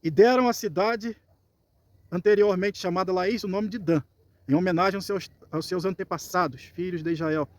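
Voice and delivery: deliberate scripture narration for listeners; scripture reading. Acted. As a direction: read the passage out with measured phrasing. Reads scripture aloud.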